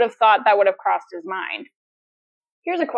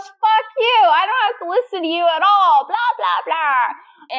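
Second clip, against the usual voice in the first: mock angry Claire; 8 semitones higher than usual. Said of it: "And she goes".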